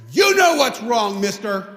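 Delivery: angry. Retold or imitated. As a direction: snap it at the rabbi. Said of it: "He was that mad".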